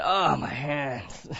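slow, drawn-out mock groan of complaint; complaining. Coworker griping about his hurting hands, slow mock moan. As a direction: imitate a man moaning slowly about his sore hands. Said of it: "the next time he said".

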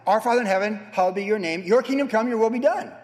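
loud fervent Lord's Prayer. Acted. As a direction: proclaim the prayer with conviction.

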